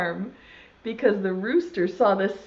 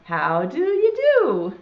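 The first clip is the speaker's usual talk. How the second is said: cow's greeting; 4 dB louder, slower than usual. Acted. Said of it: "said the cow".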